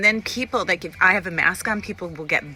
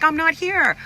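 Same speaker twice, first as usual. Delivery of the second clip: tag omitted; 8 semitones higher, 5 dB louder than usual. Retold or imitated. Mimics little girl near tears.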